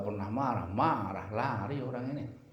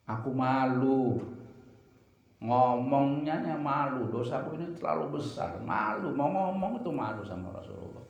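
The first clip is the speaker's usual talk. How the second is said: ashamed pleading, retold; 5 semitones higher than usual.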